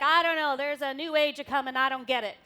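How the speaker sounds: put-on lightly done Southern American accent; a fretful old-timer in a Southern accent. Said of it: "you do it in the Southern accent".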